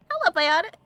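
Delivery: greeting broken by a hiccup. Real, not acted. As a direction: hiccup in the middle of the words. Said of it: "I hiccuped in the middle there".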